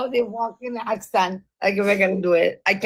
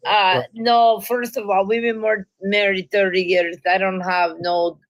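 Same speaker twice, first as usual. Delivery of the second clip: mock Latina accent; 3 semitones lower than usual. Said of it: "you can't tell a Latina to shut up".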